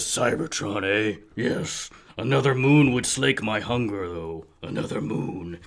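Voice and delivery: hungry monster voice. Acted. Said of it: "Ingester says".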